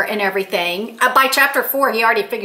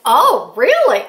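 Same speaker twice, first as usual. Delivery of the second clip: higher, louder surprised reaction; 4 semitones higher, 5 dB louder, slower than usual. Retold or imitated. Grandmother reacting to news about the grandkids, surprised. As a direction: act out being taken by surprise. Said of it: "I was so surprised".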